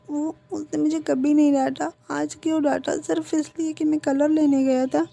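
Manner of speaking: lightly voiced child crying over a scolding. Son tells mother through tears she never scolded him, mild tearful voice. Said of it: "बहुत बुरी तरह रो रहा था".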